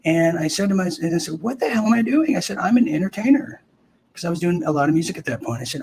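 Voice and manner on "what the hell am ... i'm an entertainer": acted self-questioning alarm. Panicked self-questioning before shipping out.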